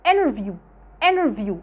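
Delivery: interview said as "innerview" with no T; relaxed American interview; t dropped. Shown as a demonstration. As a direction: skip the T after the N in interview. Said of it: "مش بنطقها".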